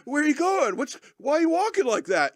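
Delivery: high, silly talking-dog voice; imitated clueless dog. Dog underfoot asking its hopping owner, high dopey voice. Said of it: "with this dog underfoot saying".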